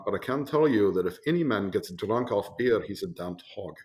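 put-on a lightly done German accent; hint of a bad German accent. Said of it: "give you a very terrible German accent".

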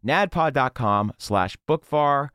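slow, careful URL. Shown as a demonstration. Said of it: "repeats URL slowly".

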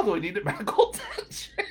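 words breaking into laughter; laughing punchline. Real, not acted. Comic delivering the punchline to Kara, laughing. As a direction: crack up as you finish.

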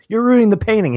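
high, loud mock whine of a kid; Mikey complaining. Mikey objecting to the painting prank, high and loud. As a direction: protest in an imitated kid's voice. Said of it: "and Mikey goes".

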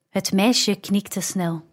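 ordinary delivery

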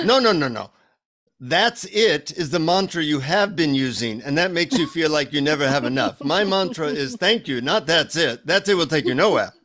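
imitated Indian guru correcting a pupil; lightly put-on Indian accent, insistent. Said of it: "a deep Indian accent".

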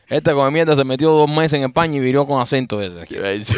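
grito entre risas. Real, not acted.

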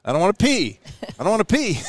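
put-on rising childish whine, repeated; whiny mock refusal. Mocking his own whiny refusal.

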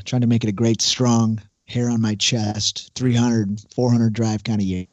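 slow, big pitchman read; infomercial voice. Acted. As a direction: sell it like a late-night infomercial. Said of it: "he sounds like he's trying to, like, be on an infomercial".

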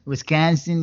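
brief mock Wisconsin accent; name the state as a Wisconsin local would. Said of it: "You're very good with accents".

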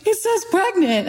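high, thrilled announcement of the news; excited husband. Retold or imitated. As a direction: squeal it out like you can't believe it. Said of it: "He's like".

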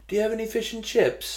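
put-on high little kid's voice, hopeful; toddler asking. Little son asks flight attendant for food, high childlike voice. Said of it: "He was, like, two or three".

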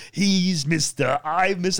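slow, loud mock Austrian villain; Arnold Schwarzenegger impression. Stoned viewer quoting Batman film, hammy Austrian villain voice. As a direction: drag it out, high and hammy, in an Austrian accent. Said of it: "and he goes".

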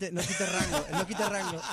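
laughing. Real, not acted. Guest laughs at mangled name.

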